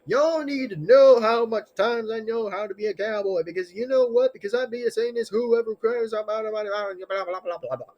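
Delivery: light Western cowboy voice; cowboy accent. Pretend. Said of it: "if I sound like a Western cowboy".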